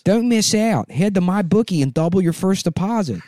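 high, mocking sponsor read; hammed-up high ad voice. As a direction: overdo it like a cheesy ad.

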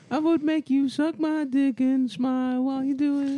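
high mock voice.

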